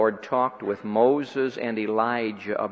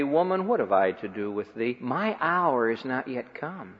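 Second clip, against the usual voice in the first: gently. Retold or imitated. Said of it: "He said to his mother gently".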